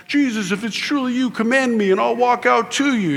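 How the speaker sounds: high-pitched eager call to the Lord; mock yelling out. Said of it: "Peter yells out to the Lord".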